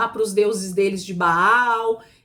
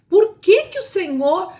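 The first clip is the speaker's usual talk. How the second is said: indignant question; 8 semitones higher, 5 dB louder than usual. Acted. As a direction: raise it high and loud, like a demand. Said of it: "com que entonação a gente poderia ler uma pergunta".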